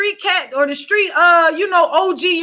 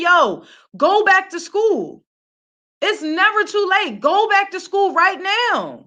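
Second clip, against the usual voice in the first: slow, emphatic call to go back to school; urging elder; 3 semitones higher, slower than usual. Retold or imitated. Old head pushing a young woman back to school, slow and insistent. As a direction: drag out each word like an insistent old head.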